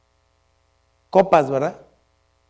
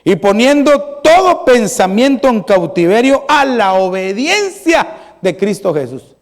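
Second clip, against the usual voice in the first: firm, raised preaching voice; emphatic preaching; 3 semitones higher than usual. Acted. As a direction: preach the verse with punchy key words. Preaches on scripture with force.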